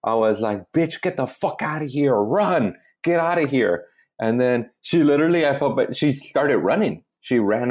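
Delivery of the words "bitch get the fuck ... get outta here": retold cussing. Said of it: "I cussed at her".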